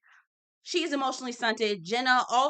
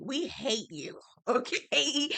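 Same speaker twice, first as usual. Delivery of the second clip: laughing diss; 4 semitones higher, slower than usual. Real, not acted. Laughing dismissal of Sai.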